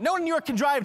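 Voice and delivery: loud and high, playful outburst; mock rant. Father venting to his laughing baby daughter, loud mock rant. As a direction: vent it big for the baby. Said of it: "And I went".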